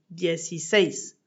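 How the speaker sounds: "dieciséis" accentué sur le dernier é; stress on final E. Shown as a demonstration. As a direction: appuyez sur la fin de "dieciséis". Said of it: "mettre un accent écrit sur le dernier E". (accent tonique sur "séis" dans "dieciséis")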